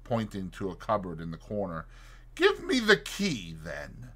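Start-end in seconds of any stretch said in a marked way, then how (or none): 2.3-4.1 calm. Acted.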